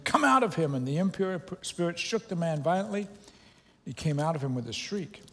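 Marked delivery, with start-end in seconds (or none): 0.0-0.7 stern command. A narrator's reading. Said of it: "said Jesus sternly".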